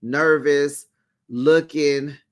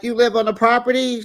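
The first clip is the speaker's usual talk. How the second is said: surprised question; 8 semitones higher, 3 dB louder, faster than usual. Retold or imitated. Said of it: "they're like".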